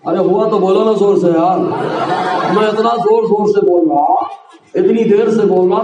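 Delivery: laughing while teasing the crowd. Real, not acted. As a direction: chuckle through the words.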